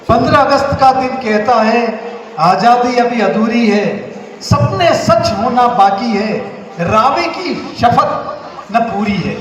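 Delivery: measured, declaimed Hindi verse; poem recitation. Acted. Reciting an independence poem to the audience, declaimed. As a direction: recite each line with deliberate emphasis and pauses.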